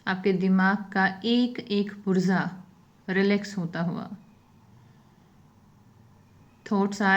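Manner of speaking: unhurried phrases, leaving silence after each instruction; guided meditation. Real, not acted.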